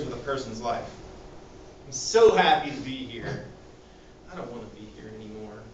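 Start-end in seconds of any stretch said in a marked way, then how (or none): 1.9-3.4 manic happiness. Shown as a demonstration. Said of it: "Mania is a period of intense happiness". 4.3-5.6 quiet, fast and hopeless; sudden despair. Shown as a demonstration. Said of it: "mood swings between depression and mania".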